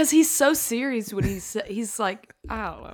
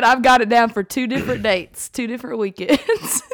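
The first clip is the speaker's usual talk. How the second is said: laughing. Retold or imitated. Laughing through quoted confession.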